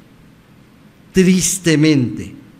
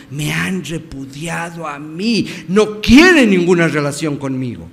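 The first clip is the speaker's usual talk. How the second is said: pained insistence, building louder; emphatic rebuke; 3 semitones higher, 4 dB louder than usual. Acted. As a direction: drive it home to Samuel, stretching key phrases. God's rebuke to Samuel, acted. (reproche enfático y dolido)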